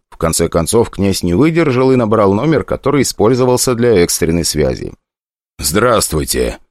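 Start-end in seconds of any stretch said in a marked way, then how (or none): 5.6-6.6 cold. Acted. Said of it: "проговорил он холодно".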